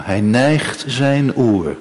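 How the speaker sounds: slow and hushed verse; slow, savoured quotation. Acted. Preacher returns to the psalm after the illustration, slow and gentle. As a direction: draw out "neigt" gently.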